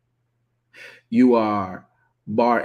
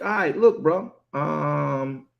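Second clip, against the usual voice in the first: higher, exasperated pushback; indignant; 5 semitones higher, slower than usual. Retold or imitated. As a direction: brush him off like a buddy, a bit fed up. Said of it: "Kepha sort of kinda got indignant".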